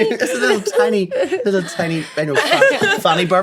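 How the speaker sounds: coy high voice. Pretend. Coy lady voice.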